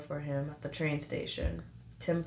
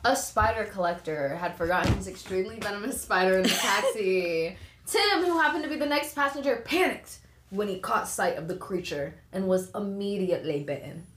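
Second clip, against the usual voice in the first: put-on English accent. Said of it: "She went into English accent".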